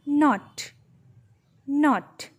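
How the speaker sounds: teacher modelling "not" with a short o. Shown as a demonstration. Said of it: "took less time for the pronunciation".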